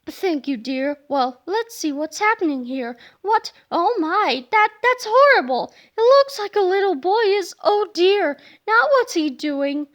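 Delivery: lightly voiced elderly grandmother, growing distressed; a hint of a fretful nana; gentle nana. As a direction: start mild, then rise in dismay. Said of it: "in her own gentle vocabulary".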